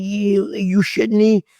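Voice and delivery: high stunned retort; retold disbelief. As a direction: imitate disbelief, pitch way up. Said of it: "I'm like".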